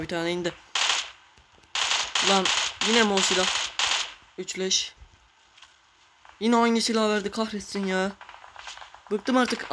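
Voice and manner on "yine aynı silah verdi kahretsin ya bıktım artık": high exasperated outburst; fed up. Real, not acted. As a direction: let the frustration burst out. Same gun again, frustrated. (bıkkın, sitemli çıkış)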